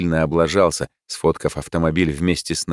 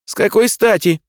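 high, loud outburst; indignant yell; 5 dB louder than usual. A narrator's reading. Narrator objects to his brother's hiring, yelling indignantly. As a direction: burst out in protest, pitch jumping up. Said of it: "заорал я".

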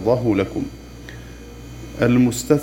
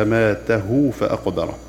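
تلاوة. Shown as a demonstration. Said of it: "فوصلت بالهاء".

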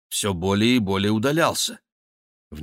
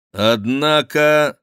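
slow, louder interjection; stern question; 5 semitones higher, 6 dB louder, much slower than usual. Acted. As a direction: pull him up short. Chicot questioning the monk.

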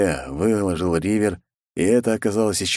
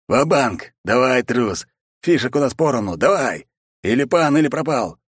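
furious all-in; 6 semitones higher than usual. Acted. Zaruba dares the hero to call his all-in, furious taunting. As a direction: goad the coward into calling.

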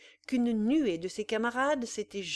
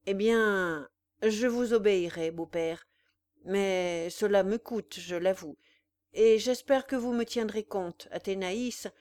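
1 grudging; 4 dB louder than usual. Acted. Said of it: "après un peu d'hésitation".

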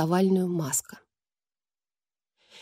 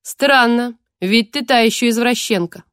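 eldritch horror; 2 semitones higher, 4 dB louder than usual. Acted. Queen mocking captive.

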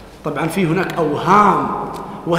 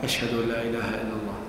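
murmured softly to oneself, much softer; under the breath; 6 semitones lower, 10 dB quieter than usual. Shown as a demonstration. Teacher showing the muezzin's quiet first pass, murmured softly. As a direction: say the shahada quietly to yourself. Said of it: "ثم يقول بينه وبين نفسه".

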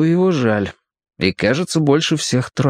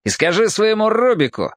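bark; 10 semitones higher than usual. A narrator's reading. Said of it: "опять рявкнул".

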